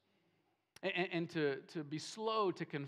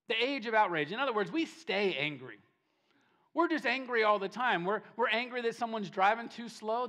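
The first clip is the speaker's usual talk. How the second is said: raised, loud preacher's delivery; impassioned preaching; 5 semitones higher, 6 dB louder than usual. Real, not acted. Preacher listing for the congregation what angers us, impassioned. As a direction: preach it with rising urgency. Preacher builds heated list.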